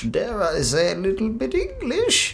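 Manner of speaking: playful put-on English. Reactor teasingly repeats his own phrase, playful put-on English. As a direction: lift it high and let it climb to the finish.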